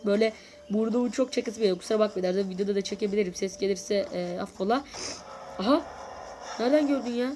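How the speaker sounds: stuffy nose from a cold; blocked nose. Real, not acted. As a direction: speak through a blocked nose. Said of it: "burnumda bir sıkıntı var. Hem tıkalı". (tıkalı burun sesi)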